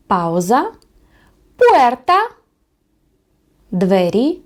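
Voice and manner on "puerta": пуерта high and louder; Spanish puerta; Spanish model word. Shown as a demonstration. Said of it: "спробуємо прочитати слова".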